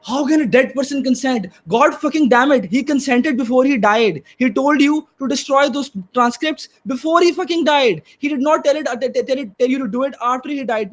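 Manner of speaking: heated and exasperated, swearing in frustration; frustrated. Real, not acted. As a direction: argue with real, rising frustration. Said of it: "I'm very frustrated right now".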